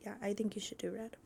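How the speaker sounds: soft unvoiced whisper; whispered nudge. Real, not acted. Nudging her friend toward red hair, whispered. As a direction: whisper the suggestion like a tempting secret.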